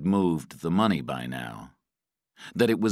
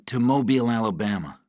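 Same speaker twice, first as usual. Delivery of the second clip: higher-pitched, anxious answer; captive's voice; 6 semitones higher, 3 dB louder, faster than usual. A narrator's reading. Patrick answers his interrogator, anxious captive's voice.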